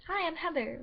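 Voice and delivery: high, chirpy self-introduction; overly sweet greeting. Retold or imitated. New girl introducing herself to the bully, chirpy and high. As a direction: play the naive kid being too friendly.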